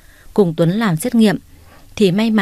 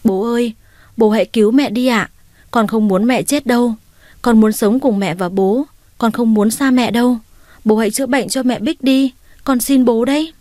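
put-on child's plea pitched higher, climbing as it goes; tearful pleading; 4 semitones higher than usual. Little girl begging her father to save her mother, tearful rising plea. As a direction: beg through tears, getting more desperate. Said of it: "Bé Bông gào khóc rồi nó xin".

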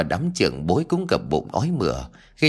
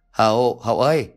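louder call to the servant; 4 dB louder than usual. Acted. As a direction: call the servant from across the house. Master calls servant. (gọi to đứa ở)

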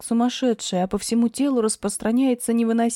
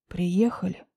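lower, quiet man's voice; low male voice; 4 semitones lower, 3 dB quieter, slower than usual. Acted. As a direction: announce it low. Grisha low.

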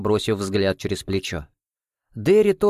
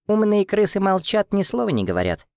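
squeaky doll voice; 10 semitones higher than usual. Acted. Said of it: "пискнула она".

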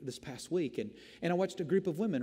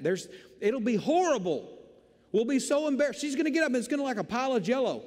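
panicked refusal; 5 semitones higher, 3 dB louder than usual. Retold or imitated. Arguing with God, refusing.

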